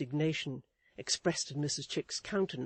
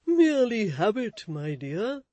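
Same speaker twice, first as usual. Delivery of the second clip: louder, meek pleading; pleading husband; 7 semitones higher, 10 dB louder than usual. A narrator's reading. Husband excusing himself to his wife, pleading. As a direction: plead your excuse meekly. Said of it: "pleaded Mister Chick".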